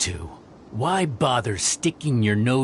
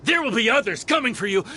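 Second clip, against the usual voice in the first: parting shout; 9 semitones higher than usual. Acted. Beaten mercenary threatening Cyno, high defiant shout. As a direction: shout the threat as you flee.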